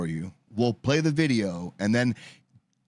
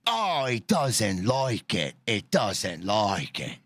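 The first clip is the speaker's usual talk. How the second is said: slow mock Irwin line; 4 semitones lower, slower than usual. Imitating Steve Irwin.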